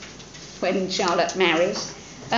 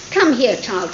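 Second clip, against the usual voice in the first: louder call summoning his daughter; father crying out to his daughter, mildly louder; cried out; 3 semitones higher, 6 dB louder than usual. Acted. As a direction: call her in firmly, a touch raised. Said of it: "cried her father as she appeared".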